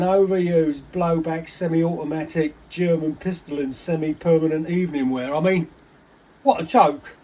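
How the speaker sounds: scornful, agitated outburst; worked-up rant. Acted. Agitated rant about the other man.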